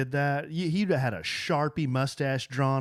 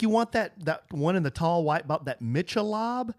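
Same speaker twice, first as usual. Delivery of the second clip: little son; 3 semitones higher than usual. Retold or imitated. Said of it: "He's like".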